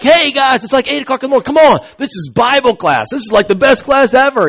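rally a sleepy class with loud zeal; zealous, joyful teacher. Retold or imitated. Bible teacher rousing his class at eight in the morning, zealous and joyful. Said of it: "this teacher had this zeal".

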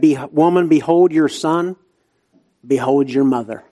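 ordinary delivery

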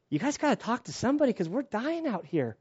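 high, strained voice begging over the radio; desperate radio plea. Retold or imitated. Soldier begging platoon over radio, high strained plea. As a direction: plead like you're dying of heat.

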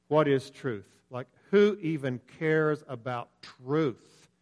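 tossed off with contempt, as if truth is nothing; dismissive, uncaring question; contemptuous and unconcerned. Retold or imitated. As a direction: shrug off What is truth? with scorn. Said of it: "enough contempt and enough unconcern in my voice".

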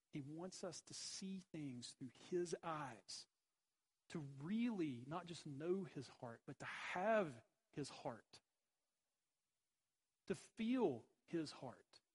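slow, earnest, tender; slow heartfelt appeal. Real, not acted. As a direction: linger on each phrase of the heart. Tender appeal about God's heart.

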